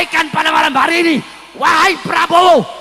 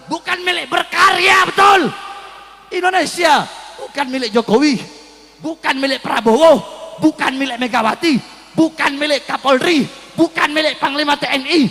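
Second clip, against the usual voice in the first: fiery oration. Real, not acted. Preacher claiming Indonesia for all its people, fiery oration. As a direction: list with hard beats, climax in a full cry. Impassioned political oration to crowd.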